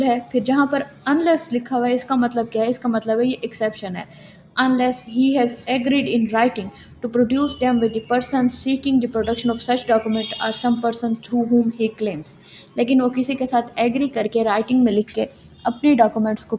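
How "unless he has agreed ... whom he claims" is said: reads the English law text slowly, word by word, as if for dictation; measured, slow legal reading for students to note down; slow statute reading. Shown as a demonstration. (धीमे-धीमे, लिखवाने के अंदाज़ में कानून पढ़ना)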